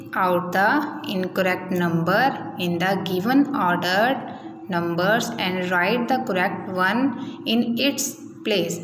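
बहुत धीमी गति से निर्देश पढ़ना; हर शब्द अलग करके निर्देश पढ़ो; reading instructions. Shown as a demonstration. Teacher reads task instruction slowly. (बच्चों के लिए धीमा निर्देश पाठ)

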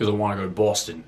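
bad Boston accent, quick. Shown as a demonstration. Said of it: "a really bad Boston accent".

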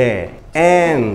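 "এ" and "অ্যান্ড" with a wide-open vowel; open-mouthed vowel. Shown as a demonstration. Teacher showing pupils the sound of A, wide-open "এ" and "অ্যান্ড". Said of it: "মুখ বড় হয়ে যাবে".

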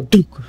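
loud, punchy mock thud; one explosive vocal thump; imitated heart thump. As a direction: imitate a heart lurching in fright. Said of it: "my heart will go".

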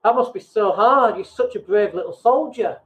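syrupy, talking down with a pitying sigh; overdone pity for a brave little soldier; condescending sympathy. Shown as a demonstration. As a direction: pat them on the head with your voice. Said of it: "without sounding really condescending".

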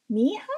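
"Miha" with the R dropped, asked as a question; a kid unsure, leaving out the R; name mispronounced. Acted. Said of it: "their R sounded wrong".

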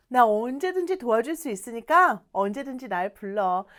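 easygoing, offhand readiness to help; breezy friendly assurance; willing, casual offer. Acted. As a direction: offer help lightly, trailing into a shrug. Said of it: "요런 느낌이에요".

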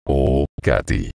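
slow, drawn-out tearful plea; a touch of weeping, stretched slowly; tearful cry. A narrator's reading. Frightened boy pleading with Katy, slow and tearful. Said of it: "exclamó llorando".

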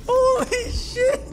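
high, slow, stunned holy shit; amazed disbelief; shocked exclamation. Real, not acted. Gamer reacting to a monster, high and stunned. After jump scare.

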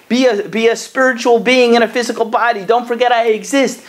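the soul calling out, urging you to remember it. Retold or imitated. The soul's inner voice calling.

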